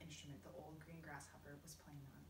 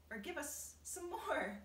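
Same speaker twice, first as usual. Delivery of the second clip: loud, high and drawn-out call; slow, insistent cry for more; shouted; 9 semitones higher, 6 dB louder, slower than usual. A narrator's reading. Miss Spider calling for an encore, slow loud cry. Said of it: "stood up and shouted".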